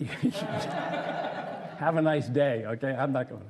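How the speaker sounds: slow, laughing through the words; laughing refusal. Retold or imitated. Wife laughing as she refuses to go.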